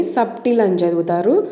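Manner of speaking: సబ్టిల్ with the b sounded; wrong pronunciation. Shown as a demonstration. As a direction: misread సబ్టిల్ as "SUB-til". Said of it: "wrong pronunciation అండి".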